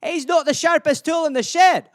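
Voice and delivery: hammed-up Scottish lilt; Scottish accent. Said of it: "it's a Scottish euphemism".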